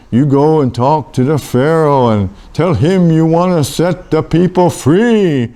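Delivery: lightly voiced divine command, slowing at the end; voice from the bush. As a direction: command like God, stretching the final words. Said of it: "and the voice said".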